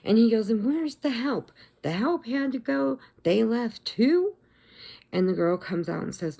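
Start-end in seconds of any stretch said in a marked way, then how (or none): 0.5-4.4 higher-pitched mock irate customer; retold angry complaint. Rude man demanding post office help, mock indignation. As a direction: imitate a man griping about the staff. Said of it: "he's still yelling at the lady".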